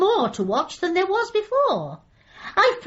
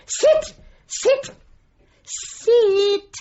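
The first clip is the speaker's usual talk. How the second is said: forceful dog command; 7 semitones higher, much slower than usual. Pretend. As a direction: bark the order again and again. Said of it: "It's my homework".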